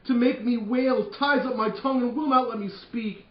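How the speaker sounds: high, loud, drawn-out wail; slow grieving lament. Acted. Lord Capulet mourning his daughter, slow and loud. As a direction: stretch each word in grief.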